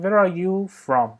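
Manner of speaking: slow teacher read with the pitch dropping on "from"; falling question tune. Shown as a demonstration. Teacher showing students a wh-question, falling at the end. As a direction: let "from" fall as a wh-question. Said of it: "انتهای جمله تون صدا میاد پایین".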